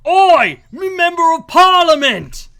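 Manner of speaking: high, long Australian holler; yelling out the window. Retold or imitated. Father calling man tending pigs, Australian yell. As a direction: holler across a farm, Aussie accent. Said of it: "yells out the window".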